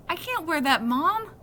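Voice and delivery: put-on boy begging mom not to wear the headband, high and loud; pleading protest.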